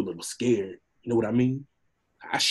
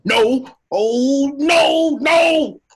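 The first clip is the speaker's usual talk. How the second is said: high, loud frightened no's; panicked cries; 12 semitones higher, 10 dB louder, much slower than usual. Acted. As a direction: cry out, cornered and desperate. Donkey cornered by the dragon.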